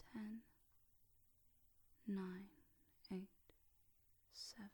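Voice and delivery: soft, hushed numbers with long pauses; hypnotic countdown. Real, not acted. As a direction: let each number sink gently.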